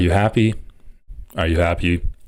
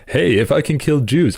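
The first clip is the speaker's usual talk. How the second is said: higher-pitched, mock-gleeful quote; beaming Hitler; 7 semitones higher than usual. A narrator's reading. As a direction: read it higher, as a beaming dictator. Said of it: "a beaming Hitler said".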